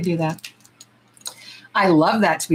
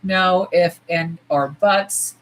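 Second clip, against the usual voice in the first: quoting him; slower than usual. Retold or imitated. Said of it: "He was like".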